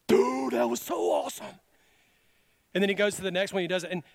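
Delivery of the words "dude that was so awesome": louder, higher thrilled cry; excited shout. Retold or imitated. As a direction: shout out the joy of a healing. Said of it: "he's like".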